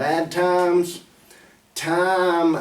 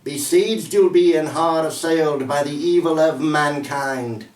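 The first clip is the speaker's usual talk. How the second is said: emphatic, measured verse reading; poem recital. Acted. Poet warning of the path to hell, solemn recital. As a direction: declaim the rhymed lines with deliberate stresses.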